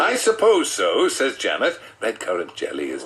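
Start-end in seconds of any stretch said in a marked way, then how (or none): 0.0-1.1 wife's voice. Acted. Narrator voices wife Janet.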